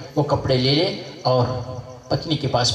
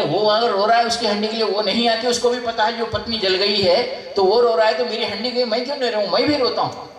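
mock wailing complaint; 6 semitones higher than usual. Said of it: "जोर से रोने लगा".

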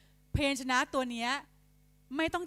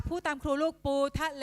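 raised classroom prompting, "ปูทะเล" syllable by syllable; repeat-after-me voice; 3 semitones higher than usual. Shown as a demonstration. Teacher has pupils repeat the word, repeat-after-me voice. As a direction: lead the children in saying "ปูทะเล". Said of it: "ให้เด็กเปล่งเสียงตามครูเพื่อเป็นการทวน".

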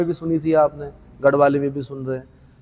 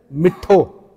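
मिठो drawn out slowly with heavy stress; slow emphatic मिठो; stressed for emphasis; 3 dB louder, much slower than usual. Shown as a demonstration. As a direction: lean on मिठो to mean very sweet. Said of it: "गुणाधिक्य प्रकट करने के लिए स्वराघात होता".

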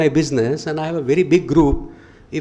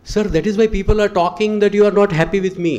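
imitating secretary; 6 semitones higher, faster than usual. Secretary's quoted complaint.

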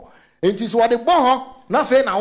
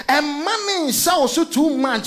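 slow, higher voice close to crying; tearful plea; 6 semitones higher, slower than usual. Real, not acted. Preacher urging church not to be overwhelmed, tearful. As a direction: plead with a catch of tears. Pleading with congregation.

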